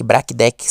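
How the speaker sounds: Black Deck tried as "BRA-ki DEH-ki"; unsure pronunciation. Shown as a demonstration. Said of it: "sei lá muito bem como fala".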